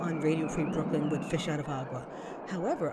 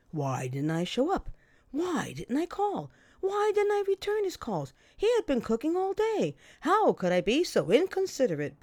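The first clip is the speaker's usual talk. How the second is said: mock angry rant, higher and louder; retold yelling; 7 semitones higher, 4 dB louder than usual. Mimicking the boyfriend yelling down the phone, mock rant. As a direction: ham up his outraged complaints. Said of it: "he started yelling at me".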